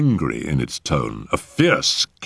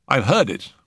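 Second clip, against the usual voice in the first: lightly voiced higher man; uneasy admission, pitched up; Settle, troubled; 8 semitones higher than usual. Settle confiding in the doctor about the cat, higher.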